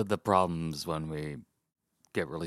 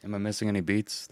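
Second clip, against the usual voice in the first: ordinary delivery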